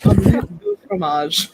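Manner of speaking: slow, hammed-up fake French accent; a mock French accent, lightly put on; terrible French accent. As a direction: ham up a bad French accent, drawing it out. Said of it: "my terrible French accent".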